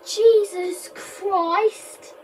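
slow startled cry of shock; startled shout. Real, not acted. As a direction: blurt it out in fright. Startled by moving objects.

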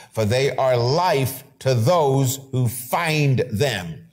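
slow, deliberate scripture read; solemn preacher reading the verse. Acted. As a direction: read each word of the verse slowly.

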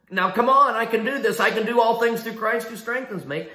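hammed-up can-do self-talk; mock pep talk. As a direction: psych yourself up, playfully overconfident. Mock self pep talk before lifting house.

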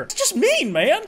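very high, loud whine; whiny squeal. Real, not acted. Whining at game character.

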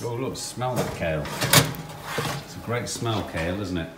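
dry, understated sarcasm; sarcastic. Real, not acted. Hungry man remarks on the kale smell, sarcastic. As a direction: feign admiration, lightly sarcastic. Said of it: "I am being sarcastic".

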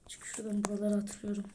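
fast hushed whisper; sneaky whisper while hiding. Real, not acted. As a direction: keep it secret, quick and breathy. Sneaking in horror game.

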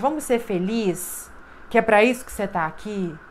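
lightly voiced divine call, coaxing; voz de Deus. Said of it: "É Deus falando". (voz divina suave, levemente mais grave, chamando com carinho)

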